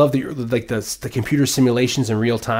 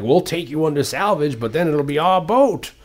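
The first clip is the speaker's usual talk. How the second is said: put-on Russian accent; 4 semitones higher than usual. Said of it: "With a Russian accent".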